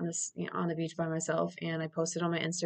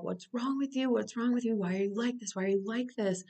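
mock exasperated outburst, pitched higher; reliving a snapped, higher-pitched outburst, not shouted; losing it; 5 semitones higher than usual. On vacation, snapping at her partner during the fight, exasperated and higher. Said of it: "that's when I lost it".

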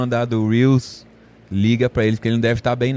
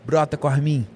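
mock Rio slang call; badly faked carioca accent; carioca imitation; slower than usual. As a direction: summon a pal in put-on carioca. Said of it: "imitação dele de carioca".

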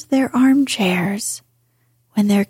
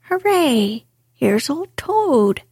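put-on higher, bright mole greeting an old friend; gleeful cry; 4 semitones higher than usual. A narrator's reading. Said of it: "cried the mole".

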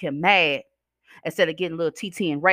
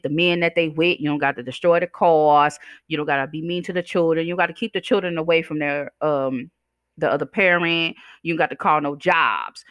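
normal talking voice

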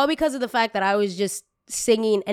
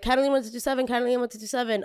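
imitated schoolyard teasing; 5 semitones higher, much faster than usual. Imitates schoolmates chanting her username.

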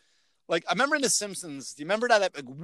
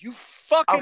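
imitating the coach; 11 semitones higher, 5 dB louder, slower than usual. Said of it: "And he goes".

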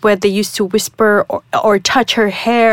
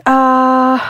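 whisper; 3 semitones higher than usual. Real, not acted. Trying to whisper.

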